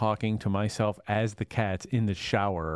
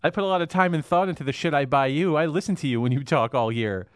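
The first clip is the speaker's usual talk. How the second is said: sarcastic dog; 4 semitones higher than usual. Pretend.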